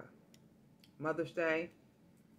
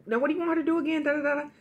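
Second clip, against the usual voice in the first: much higher, louder, sassy demanding daughter; pretend daughter; 10 semitones higher, 4 dB louder, faster than usual. Narrator poses as the woman's daughter to question the scammer, high and pushy. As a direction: press the scammer while playing the worried daughter. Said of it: "acting like I'm her daughter".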